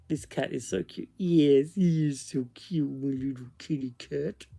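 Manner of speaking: softly cooing over a cat; cooing pet talk. Real, not acted. Owner breaks off the ghost story to adore the cat, cooing. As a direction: dote on the kitty in a soft little voice.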